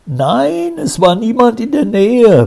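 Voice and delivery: very high, pleading denial; hasty protest. A narrator's reading. Alfred hastily assures the commissioner, nervous and high. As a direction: rush the denial, voice shooting up. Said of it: "beteuerte Alfred hastig".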